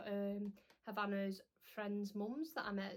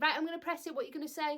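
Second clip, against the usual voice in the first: brisk shop assistant; 7 semitones higher, 6 dB louder, faster than usual. Retold or imitated. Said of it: "the woman said".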